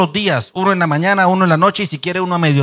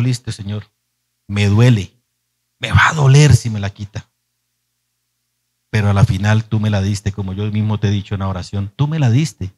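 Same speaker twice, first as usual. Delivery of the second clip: lower, hushed surrender; tearful surrender; 6 semitones lower than usual. Retold or imitated. Father praying to God to let his daughter go, tearful. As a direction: give her up, hurting but resigned. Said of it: "me levanté y le dije".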